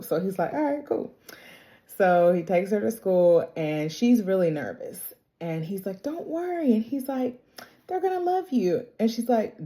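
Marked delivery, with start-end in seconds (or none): 0.5-1.1 high, soft, easy-going reply; breezy little okay; casual agreement. Retold or imitated. 6.0-8.9 high, soft, soothing retelling; gentle, high-pitched encouragement; reassuring dad. Retold or imitated. Dad reassures nervous daughter.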